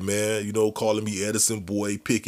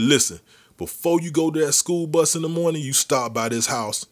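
firm uncle; 3 semitones higher than usual. Retold or imitated. Uncle gives orders, retold.

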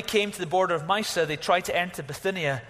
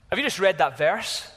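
louder, questioning astonishment; mild disbelief; 3 semitones higher, 5 dB louder than usual. Acted. Preacher asks congregation about a startling verse, mildly incredulous. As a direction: ask it emphatically, with a touch of disbelief. First take of amazed question.

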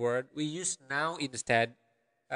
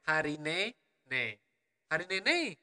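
Balinese regional accent. Shown as a demonstration. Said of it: "that would be the accent of my region".

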